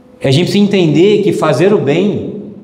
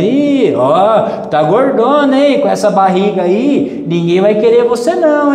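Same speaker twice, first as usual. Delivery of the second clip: put-on higher, taunting voice poking fun at a child's belly; mocking uncle; 5 semitones higher, slower than usual. Uncle teasing his young niece about her weight, higher and mocking. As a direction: jeer like a tactless relative at a family party.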